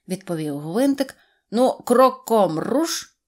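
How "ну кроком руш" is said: loud, slow marching order; drill command. A narrator's reading. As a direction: order the squad to set off, drawing it out. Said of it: "раптом скомандував він". (гучна стройова команда)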